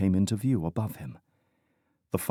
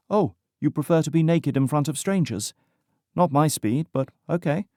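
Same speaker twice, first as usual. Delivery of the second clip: higher, amused woman's voice; teasing young woman; 8 semitones higher than usual. A narrator's reading. Woman teasing the injured diver in a playful voice. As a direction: she ribs him and stays firm.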